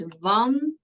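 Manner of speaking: "wandelen" split into van, de, len with pauses; syllable by syllable. Shown as a demonstration. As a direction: break "wandelen" into separate syllables, short A. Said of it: "literally using syllables".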